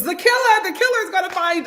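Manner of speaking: imitating mama. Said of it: "my mama's like".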